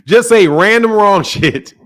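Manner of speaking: slow words broken by a laugh. Acted. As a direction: laugh through the jab at him. Laughing mock of caller.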